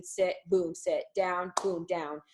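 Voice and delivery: sharp, clipped commands; each cue snapped short and firm; crisp obedience cues. Shown as a demonstration. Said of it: "much more precision".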